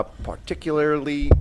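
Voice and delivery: slow, hesitant Australian attempt at "particularly"; Australian accent. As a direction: sound out "particularly" as an Australian might. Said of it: "how an Australian would say".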